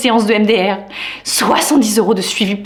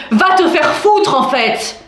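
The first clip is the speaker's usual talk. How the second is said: high, drawn-out exasperated curse; blunt retort; 4 semitones higher, slower than usual. Acted. Woman acts out telling advice-givers off, exasperated. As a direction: fire off the curse slowly and emphatically.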